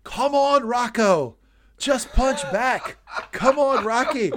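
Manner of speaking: loud high coaching shout from the corner; Apollo Creed yelling. Retold or imitated. Apollo Creed yelling at Rocky from his corner, loud shout. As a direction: bellow encouragement like a boxing trainer. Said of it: "I'm Apollo Creed in Rocky's corner, yelling".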